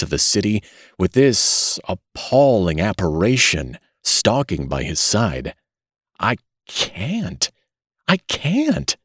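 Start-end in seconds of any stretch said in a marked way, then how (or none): 6.2-9.0 mild despairing moan, rising high. A narrator's reading. Father dreading the walk home, mild despairing moan. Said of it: "he moaned".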